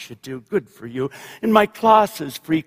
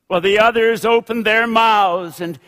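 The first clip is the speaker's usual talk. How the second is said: literary reading. A narrator's reading. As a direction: settle down, then lift to the close. Reads novel narration aloud.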